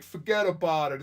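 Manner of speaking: a touch of mock New York tough-guy accent. Host showing listeners what Ed doesn't sound like, mock New York accent. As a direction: lightly put on a movie-mobster New York accent. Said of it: "got that New York accent".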